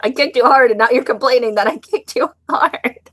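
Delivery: high, laughing incredulity; incredulous rant. Real, not acted. Retelling her brother's complaint, high and incredulous. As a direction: rant at how ridiculous he was. Ranting about kicking brother.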